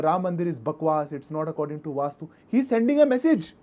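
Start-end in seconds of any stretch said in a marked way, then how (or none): 2.5-3.5 raised voice. Real, not acted. Heated TV debate, rising shout.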